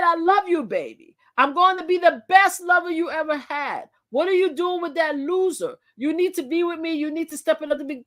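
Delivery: a light hint of Trump, each phrase falling; a mild Trump take with punchy falling endings. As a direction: read it the way he talks now, lightly. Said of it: "This is how he talks now".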